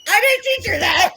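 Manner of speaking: high, loud protest; indignant protest. Retold or imitated. Mother disowns her daughter's prank, loud indignant protest. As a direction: blurt out a loud denial.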